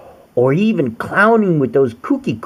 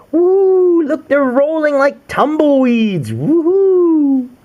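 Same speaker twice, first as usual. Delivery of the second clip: high, loud gleeful whoops; high excited woohoo; tumbling whoops; 13 semitones higher, 4 dB louder, slower than usual. Acted. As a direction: cheer them rolling along.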